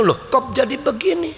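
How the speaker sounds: put-on a young man caught off guard; startled question. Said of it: "Jadi pemuda itu".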